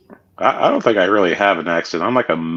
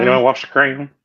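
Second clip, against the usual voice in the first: higher mock British query; put-on British accent; 5 semitones higher than usual. American teasing a British friend once more, mock British accent. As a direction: repeat the British tease playfully.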